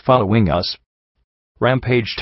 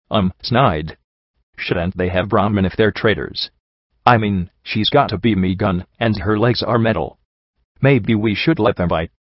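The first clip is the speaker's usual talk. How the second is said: lightly voiced dim brute, unsure; hesitant bandit henchman. Scarred brute doubts robbing travellers to his boss, lightly voiced hesitant henchman.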